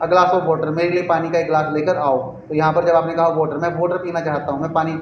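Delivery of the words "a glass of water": example sentence said slowly; teacher giving an example sentence slowly. Shown as a demonstration. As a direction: read the example out slowly for the class. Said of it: "जैसे कहते हैं ना कि".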